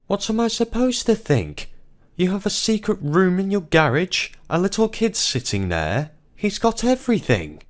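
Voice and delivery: high, loud and indignant; angry husband's outburst. Acted. Husband repeats wife's accusation, high angry outburst. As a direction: throw her words back at her.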